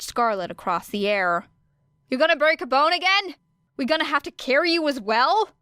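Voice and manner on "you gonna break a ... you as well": taunting. Acted. Taunting mid-fight.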